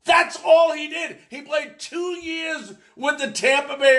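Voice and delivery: high, exasperated outburst. Real, not acted. Host dismisses a player's short stint, exasperated. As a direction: protest it as if it's absurd. Host ranting about retired number.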